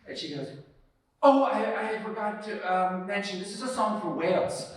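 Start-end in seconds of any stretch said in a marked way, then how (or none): 1.2-4.7 louder, higher, suddenly remembering; a hint of a flustered performer; timid afterthought. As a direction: blurt the forgotten detail shyly. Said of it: "Jen Hathaway is speaking like this".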